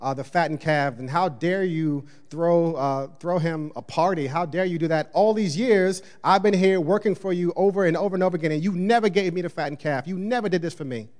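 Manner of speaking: a hint of a resentful brother protesting; lightly hammed-up jealous brother's rant; older brother's complaint. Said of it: "He's like".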